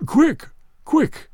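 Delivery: high, urgent ghostly cry; unearthly voice. Acted. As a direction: cry out like a spirit. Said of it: "cried the ghost".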